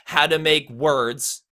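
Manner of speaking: slow "how to make words", landing on "how", "make", "words"; stressed on the beat. Shown as a demonstration. Coach builds the example on beat, slow stressed syllables. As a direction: put weight on "how", "make" and "words", "to" light. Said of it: "the how and the make are stress".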